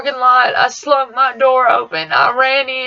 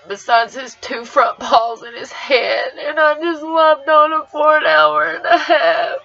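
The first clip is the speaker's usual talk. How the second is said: crying; 3 semitones higher than usual. Real, not acted. Crying over the body.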